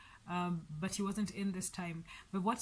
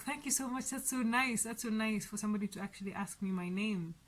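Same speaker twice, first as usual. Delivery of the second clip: imitated touched thanks; 2 semitones higher than usual. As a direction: voice her being pleasantly taken aback. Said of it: "touched, you know, she was like".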